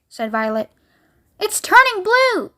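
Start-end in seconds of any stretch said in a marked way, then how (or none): 1.4-2.5 high, slow alarmed scream; a mother in horror; panicked raised cry. A narrator's reading. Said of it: "screamed Missus Beauregard".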